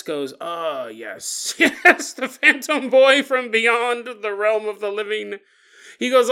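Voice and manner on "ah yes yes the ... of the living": mock calm old man. Old man explaining the phantom boy to Scott, mock calm. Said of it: "in a very calm voice".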